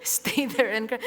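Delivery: says it again while laughing; amused laughing repeat. Retold or imitated. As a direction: chuckle through the words. Repeats the line through laughter.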